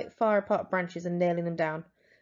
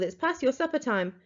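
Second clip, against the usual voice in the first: calling up; 5 semitones higher than usual. Acted. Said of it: "she called".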